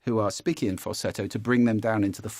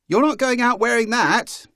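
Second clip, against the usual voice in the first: higher and louder shrill-free head voice; head voice scold; 12 semitones higher, 8 dB louder than usual. Shown as a demonstration. Parent scolding in head voice, coach contrasting. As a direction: squeak it out from the head. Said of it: "as opposed to".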